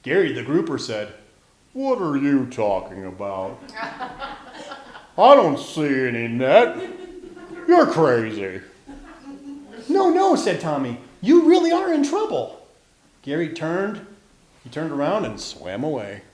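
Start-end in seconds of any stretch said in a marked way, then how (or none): 1.7-8.6 low, slow fish voice; big slow dismissive grouper; grumpy grouper. A narrator's reading. Voicing Gary the grouper. 9.9-10.4 very high, loud protest; alarmed storybook character; urgent warning. A narrator's reading. Tommy warns the grouper. 11.2-12.7 high, loud alarm; high-pitched storybook pleading; urgent warning. A narrator's reading. Tommy warns the grouper.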